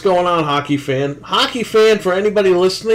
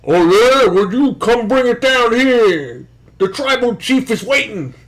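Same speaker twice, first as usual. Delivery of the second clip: mock tribal chief; 6 semitones higher, slower than usual. Mock reply promo in skit.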